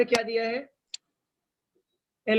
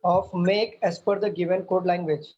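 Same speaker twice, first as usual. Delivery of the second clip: slow dictation; much slower than usual. Shown as a demonstration. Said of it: "teacher dictating question to students".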